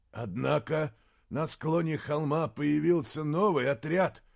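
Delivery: a hint of an anxious old man watching the field; uneasy old counselor. Counselor describes battle uneasily. (тревожный голос старого советника)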